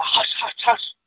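whispered hush hush. Acted. Children at the window hush Abby, in a whisper. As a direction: shush them under your breath. Children hushing a loud speaker.

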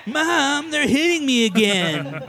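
high laughing tattle, slowed; whiny child. Retold or imitated. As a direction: wail it like a tattling kid.

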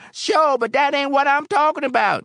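loud, high-pitched objection; exasperated bar patron cutting in high and loud; impatient protest. A narrator's reading. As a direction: protest loudly, pitched right up. Patron protests to barkeep's questions.

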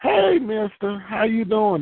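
put-on high, bright-eyed kid calling out to a grown-up; lightly voiced little child greeting a stranger; little child's greeting. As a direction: chirp it like a small child saying hello. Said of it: "God always send a child".

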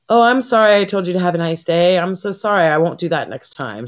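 fake-sweet apology dripping with sarcasm; sarcastic apology. Cashier snapping back at a grumpy customer, mock apologetic. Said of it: "And I'm like".

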